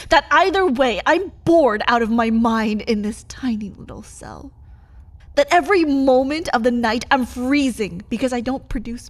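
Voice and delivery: loud, bitter list of grievances; angry complaint. Acted. Vampire loudly listing her misery to her partner. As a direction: pile the grievances on him.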